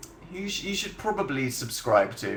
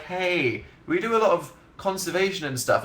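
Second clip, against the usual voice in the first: lightly mocking, higher-pitched voice; imitated SeaWorld spokesman; 5 semitones higher than usual. SeaWorld answering its critics, mock defensive. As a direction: chirp up in mock self-defence. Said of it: "SeaWorld are like".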